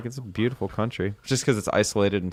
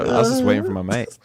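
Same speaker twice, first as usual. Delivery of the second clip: mock bogan Aussie excuse; bogan Australian accent; 3 dB louder than usual. American quoting the drunk driver to cops, mock Australian. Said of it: "you wanna see Bogan Australian".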